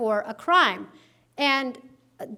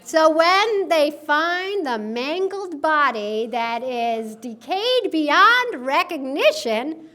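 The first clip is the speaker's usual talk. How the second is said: mock grim aside; 3 semitones higher, 6 dB louder, much slower than usual.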